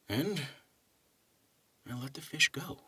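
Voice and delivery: measured, unhurried poetry recital; calm poem recital for a relaxing story time; poem reading. Acted. Reads the poem aloud.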